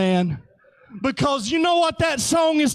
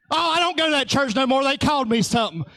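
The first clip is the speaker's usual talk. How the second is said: fast mock whine; much faster than usual. Voicing churchgoer quitting.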